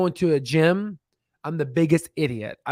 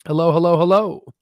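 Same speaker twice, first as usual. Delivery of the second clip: louder hello, calling to see if anyone is there; 3 semitones higher, 5 dB louder than usual. Real, not acted. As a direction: call out to the chat. Calling out to check audience.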